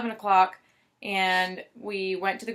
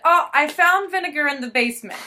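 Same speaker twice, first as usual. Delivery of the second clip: imitating mom; 6 semitones higher, 6 dB louder than usual. Mom on phone, retold.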